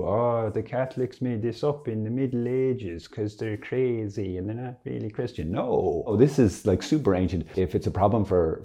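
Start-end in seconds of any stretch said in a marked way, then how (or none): 0.0-5.5 a lightly voiced scornful critic, a little higher; mock critic voice. Speaker mocks critics who call Catholic beliefs made up, lightly scornful mock voice. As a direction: mimic someone dismissing Catholics as crazy.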